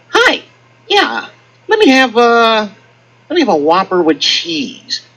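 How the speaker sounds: slow, drawn-out ordering voice; drive-thru customer. Retold or imitated. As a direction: lazily place the order.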